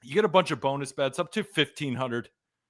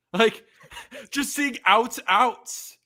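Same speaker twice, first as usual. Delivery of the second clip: higher, slow, with a laugh on the first words; laughing recitation; 5 semitones higher, slower than usual. Retold or imitated. Host laughing at how the game app looked, amused recitation. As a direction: laugh while listing the alerts.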